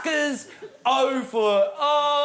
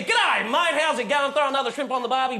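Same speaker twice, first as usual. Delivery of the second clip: stock cheery Australian greeting; Australian accent. Acted. Comic imitates Australians greeting people, Australian accent. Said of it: "They light up the room with their".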